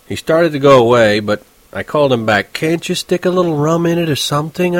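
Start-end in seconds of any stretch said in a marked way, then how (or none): 2.5-4.8 a higher, coaxing, polite request; asking the waiter nicely for rum, a touch sweet and higher. Acted. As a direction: sweet-talk the waiter, nice and friendly. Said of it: "I asked him very nicely and all".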